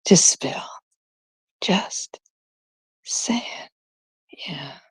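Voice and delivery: trailing whisper; sly gossipy whisper. Real, not acted.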